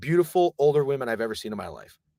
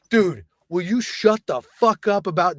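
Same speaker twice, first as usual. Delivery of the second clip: higher, drawn-out complaint; slow, exasperated mock retort; mock exasperation; 4 semitones higher, 3 dB louder, slower than usual. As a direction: imitate a friend who is fed up. Drunk friend's exasperated retort.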